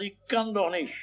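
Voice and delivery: high, soft mock wail; lightly acted childish whine; wailing boy. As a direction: imitate a tearful little boy. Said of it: "der Junge heult und sagt".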